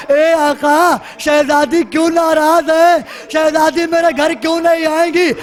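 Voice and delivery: understated tearful appeal to a master; imploring. Acted. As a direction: plead humbly, mildly distressed. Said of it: "ہاتھوں کو جوڑ کے کہا". (عاجزانہ التجا)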